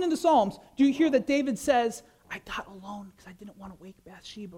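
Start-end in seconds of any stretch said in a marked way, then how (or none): 2.3-4.6 hushed mock prayer. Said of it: "my little whisper prayer".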